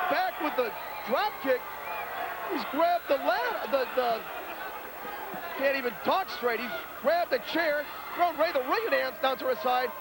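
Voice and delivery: ordinary talk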